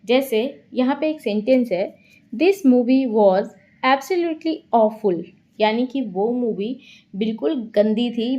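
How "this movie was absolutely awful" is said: "absolutely awful" said slowly with emphasis; slow, deliberate model sentence leaning on "absolutely awful"; emphatic example. Shown as a demonstration. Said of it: "उस बात पे जोर देना पड़ता है".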